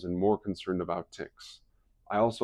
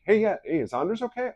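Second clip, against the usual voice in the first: much higher anxious question; alarmed, fearing the worst; worried; 13 semitones higher, 4 dB louder than usual. Retold or imitated. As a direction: friend fearing an accident, high worried voice. Teller fears a car accident.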